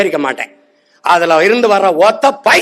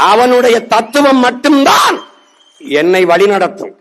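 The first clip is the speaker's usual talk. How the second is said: rousing shout; 2 semitones higher than usual. Real, not acted. Rousing political speech climax.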